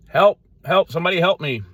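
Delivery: high, loud cry for help; shouting for help. Acted. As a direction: call out from the bottom of a pit. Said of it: "So he kept shouting".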